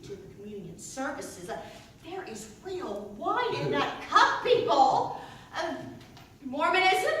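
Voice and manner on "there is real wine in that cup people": mock indignant exclamation. Mock outrage at communion wine.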